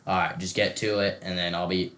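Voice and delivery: a lightly done monotone teacher. Retold or imitated. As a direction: drone like a bored teacher. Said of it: "the most monotone, monotone voice ever".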